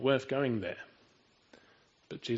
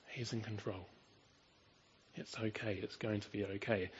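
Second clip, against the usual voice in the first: reassuring; 3 semitones lower, 10 dB quieter than usual. Real, not acted. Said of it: "reassuring congregation about death".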